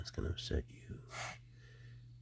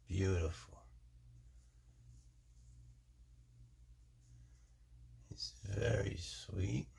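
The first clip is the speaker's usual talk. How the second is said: affectionate; slower than usual. Real, not acted. Fond showing of pet snake.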